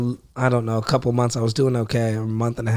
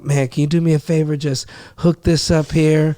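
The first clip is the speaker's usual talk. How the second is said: higher and friendly, asking a favor; friendly request; 3 semitones higher than usual. Shown as a demonstration. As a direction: ask nicely like a buddy.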